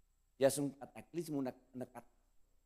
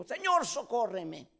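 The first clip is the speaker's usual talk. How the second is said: drawn-out plea of a sinking man; crying for help; 7 semitones higher, slower than usual. Retold or imitated. Peter sinking in the lake calls Jesus, slow high cry. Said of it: "Pedro gritó".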